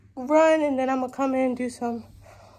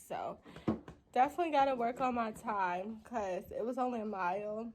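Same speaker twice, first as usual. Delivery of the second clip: out of breath; 5 dB quieter than usual. Real, not acted. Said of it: "I'm so out of breath 'cause I am".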